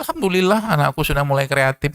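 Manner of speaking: high, bright, forced-cheerful "Alhamdulillah" over a broken glass; mock cheerful gratitude. Shown as a demonstration. Parent told to greet a broken plate with a high mock-cheerful thanks. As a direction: pretend to be delighted about the mess, pitched well up. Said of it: "Bilang aja gitu".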